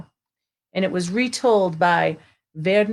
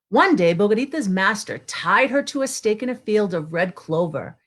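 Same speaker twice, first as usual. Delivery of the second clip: story narration; 3 semitones higher than usual. Acted. Teacher reading a storybook to online children, lively narration. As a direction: read it like a picture book to kids.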